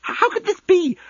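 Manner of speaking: high, stammered cry of disbelief; aghast disbelief. Acted. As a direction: voice shoots up, appalled. Incredulous outburst at unfinished deck.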